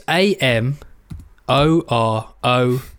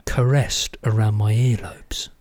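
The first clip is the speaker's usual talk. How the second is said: ASMR whisper; 3 semitones lower, slower than usual. Acted. Describing a podcaster's voice to his co-host in an ASMR whisper. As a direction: breathe it out like an ASMR video. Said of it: "You're now into the A S M R".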